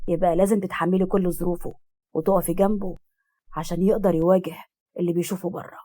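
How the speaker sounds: a hint of a low-voiced character; lightly voiced character.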